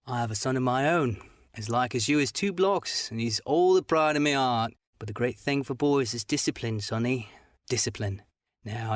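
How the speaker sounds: lightly voiced sneering seaman, coaxing; half fawning, half sneering old sailor; wheedling buccaneer, lightly done; fawning pirate. Black Dog coaxes the boy.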